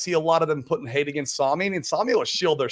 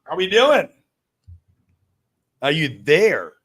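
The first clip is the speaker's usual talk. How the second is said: playful whispered greeting; breathy hushed hello to a friend; whispering; 3 semitones higher, 4 dB louder, much slower than usual. Real, not acted. Calling to a friend joining.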